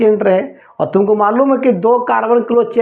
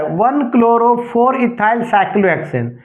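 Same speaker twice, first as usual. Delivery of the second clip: slow dictation; much slower than usual. Shown as a demonstration. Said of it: "तो ये क्या बोला है?".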